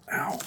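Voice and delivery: sharp little yelp of pain; a quick ow from a stubbed toe. Real, not acted. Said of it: "I just stubbed my toe".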